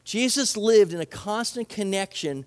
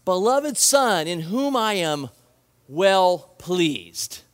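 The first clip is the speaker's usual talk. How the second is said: slow, louder, solemn divine pronouncement; God's voice; 4 dB louder, slower than usual. Retold or imitated. The voice from heaven names his beloved son, slow and louder. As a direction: proclaim it like God calling from heaven. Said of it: "what did God's voice say".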